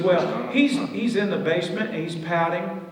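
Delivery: high, loud, pleading wife voice; worried wife. Retold or imitated. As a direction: Deborah pleading with Billy about Ned, high and loud. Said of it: "He goes".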